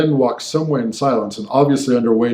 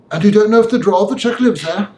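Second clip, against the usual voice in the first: quick, higher, abrupt question; sudden question; 9 semitones higher, faster than usual. Acted. Lawyer suddenly presses his friend with a quick, higher question. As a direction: blurt it out, suddenly curious. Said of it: "asking rather suddenly".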